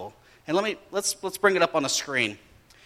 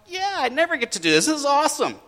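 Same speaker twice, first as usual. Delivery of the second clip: high, quick, excited acting; excited, higher-pitched reenactment; eager dad; 10 semitones higher, faster than usual. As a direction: gush like a thrilled dad. Eager dad acted in story.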